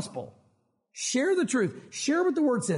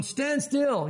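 lightly dramatised prophet's command, raised pitch; higher, mildly mock-heroic proclamation; commanding Moses; 5 semitones higher than usual. Moses commanding the people to hold, mock-heroic.

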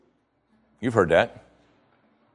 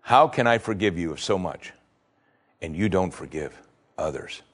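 Jesus rebuking Peter; 5 semitones lower, 4 dB quieter than usual. Retold or imitated. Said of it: "What Jesus is saying is".

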